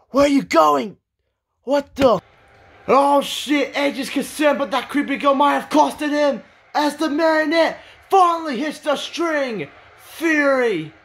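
urgent call of the finisher; worked-up match commentator; excited play-by-play. Acted. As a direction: build up, then stretch out the move's name. Live play-by-play, finishing move.

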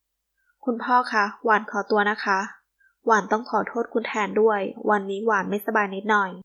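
courteously excusing herself; lightly voiced polite regret; polite apology. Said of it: "พัชราเอ่ยขอโทษด้วยน้ำเสียงสุภาพ".

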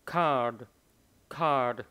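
card with a gentle final d; card with the d barely pushed; card, final d light; soft final d. Shown as a demonstration. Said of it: "Âm đi rất nhẹ".

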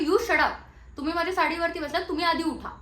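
loud, fast angry order to get up; angry scolding. Retold or imitated. Actress orders the drunk man off her sari, loud and angry. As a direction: snap him off your sari.

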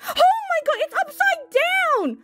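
high-pitched, astonished squeal of words; real shocked excitement. Real, not acted. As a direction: blurt it out high in stunned delight. Sudden discovery of upside-down card.

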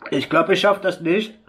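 gasping through the burning chili heat; strained, mouth on fire from spice; mouth burning from spicy food. Real, not acted. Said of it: "Zu scharf".

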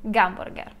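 Gamburger said with a hard g at the start; Russian pronunciation. Shown as a demonstration. Teacher tells viewers what Russians order at McDonald's. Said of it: "in the McDonald's we would eat".

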